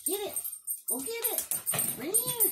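high, sing-song coaxing call to the dog. Real, not acted. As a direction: coax the dog back in a high voice. Calling dog to fetch toy.

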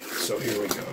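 a hint of a tough comic-book antihero; half-hearted tough-guy voice, barely put on; Wolverine voice. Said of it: "That's my Wolverine voice".

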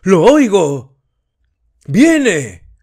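high, loud ecstatic shriek; a worshipper shrieking that it comes. A narrator's reading. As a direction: shriek it in frenzy. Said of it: "chilló Sarjoini Angels".

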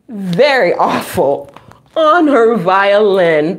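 lively picture-book read-aloud; reading to children. Acted. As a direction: draw out each very for the kids.

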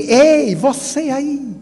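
high-pitched retold challenge, called out; mock yell. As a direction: imitate an irritated man hollering across a queue. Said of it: "o senhor que gritou de lá".

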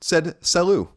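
read-aloud voice, pitched a little up; reading a listener letter. Acted. Host reads a listener's letter to co-host, read-aloud voice. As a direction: read the letter out in an even presenter's cadence.

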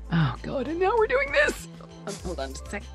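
normal talking voice

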